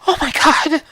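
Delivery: frightened gasp. Acted. Caller hears glass breaking.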